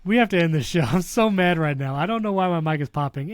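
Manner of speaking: popping mic, half-laughing annoyance; crackly usb mic. Real, not acted. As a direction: push loud into a popping mic. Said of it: "Why is my mic popping?".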